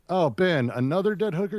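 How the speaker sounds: half-hearted imitated shout, rising at the end; mild retold yell. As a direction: imitate someone yelling across a film set. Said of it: "someone yells at Ben Affleck".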